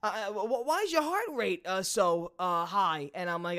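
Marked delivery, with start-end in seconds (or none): 0.7-3.1 put-on Russian accent. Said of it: "Russian accent".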